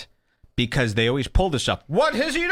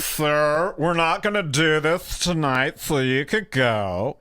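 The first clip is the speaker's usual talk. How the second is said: mocking imitation; 3 semitones higher, slower than usual. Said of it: "What's with this gay voice?".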